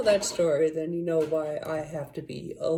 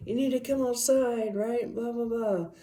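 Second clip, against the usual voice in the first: higher, eerie pleading voice of a caller; the thing luring a child outside; demon on phone; 6 semitones higher than usual. Retold or imitated. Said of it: "it was kinda like".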